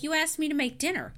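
lightly acted marital annoyance; imitating annoyed wife. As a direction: retell a wife's miffed complaint. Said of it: "well, she gets mad".

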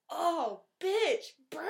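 high, loud crowing over a burn; hammed-up gloating reaction; gleeful taunt. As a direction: cheer the put-down, breaking into laughter. Retells gleeful reaction to comeback.

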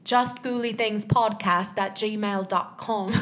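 slow, mumbled British accent attempt; marbles in mouth British accent. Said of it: "There's, like, marbles in your mouth".

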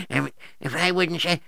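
usual speaking voice

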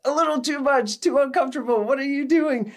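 high, squirming disbelief; uncomfortable inner reaction. Retold or imitated. Hearing a woman pray to Daddy, high startled discomfort. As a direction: recoil inside at the word. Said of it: "I'm like".

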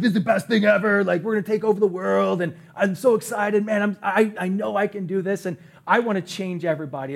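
like you could take over the world; hyped up. Retold or imitated. Pastor imitating his own overexcited highs, pumped. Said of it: "so full of Jesus juice".

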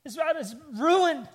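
mock a kid's hysterical wail; hysterical child. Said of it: "he's just hysterical".

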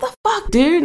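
very high, half-laughing outrage; retold snapping. Driver retelling her reply to an apology, snapping. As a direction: replay your exasperation with a laugh in it. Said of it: "like, snapping".

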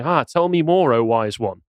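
Louis Theroux. Acted. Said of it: "would he be sitting there going".

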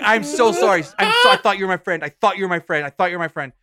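high, loud panicked sorry; frantic apology. Retold or imitated. Apologizing to the stranger he just hit, high and panicked. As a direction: gush apologies high and fast.

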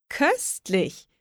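high, relishing call; delighted exclamation. A narrator's reading. Witch tastes her chocolate hair, calling out delighted. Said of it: "rief sie und lachte".

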